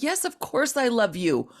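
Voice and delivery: high, fast, earnest parental reassurance; the inner voice explaining its harshness as love; reassuring love. Retold or imitated. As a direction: soothe like a worried parent.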